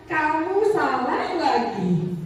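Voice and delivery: slow, half-laughing mock scolding; scolding teacher. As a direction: drag out the reproach with a laugh. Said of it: "keluar kalimatnya". (omelan guru dengan tawa kecil)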